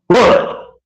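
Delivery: a high, loud, incredulous what. Retold or imitated. Retelling how he challenged the boss, high incredulous what. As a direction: shoot it up high in disbelief.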